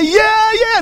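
high sarcastic brush-off; scoffing yeah yeah; mocking dismissal. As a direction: roll your eyes, sure, sure. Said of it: "what do they say".

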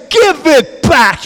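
slow, high shout of command. Pretend. Preacher showing the army of God confronting the thief, commanding shout. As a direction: order it back.

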